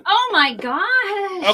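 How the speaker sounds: shocked gasp. Real, not acted. Reacting to gruesome murder detail.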